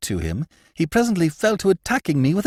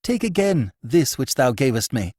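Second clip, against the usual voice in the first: raised, urgent pleading; vehement cry; 10 semitones higher, 5 dB louder than usual. Acted. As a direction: thrust the words out, pressing. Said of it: "he cried vehemently".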